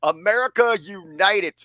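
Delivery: rally the nation, stretched out; mock wrestling promo.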